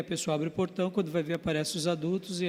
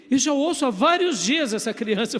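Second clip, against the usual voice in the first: laughing; 6 semitones higher, 5 dB louder than usual. Retold or imitated. Wife's reply retold laughing.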